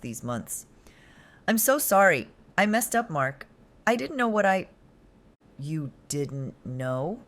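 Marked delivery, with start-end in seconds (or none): 1.5-4.7 high, loud tearful pleading; kneeling girlfriend begging forgiveness; desperate begging. Acted. Begging boyfriend on her knees. 5.6-7.2 mocking. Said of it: "His laugh rang out again".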